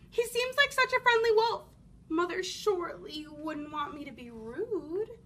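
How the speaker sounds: put-on bright, eager little girl. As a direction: sound young and trusting. Red's thoughts, girlish.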